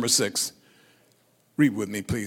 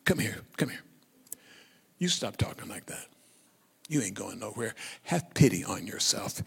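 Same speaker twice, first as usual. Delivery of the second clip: softer, lower aside; private rebuke; 3 semitones lower, 5 dB quieter than usual. Acted. Peter privately rebuking Jesus, hushed. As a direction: take him aside and quietly scold him. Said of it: "took him aside to speak to him privately".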